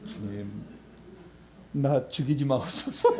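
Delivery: hushed, half-laughing plea to God; mock fearful prayer. A scribe on his knees begging God not to kill him, hushed and half-laughing. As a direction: beg for mercy in a mock-scared murmur. Kneeling scribe prays in fear.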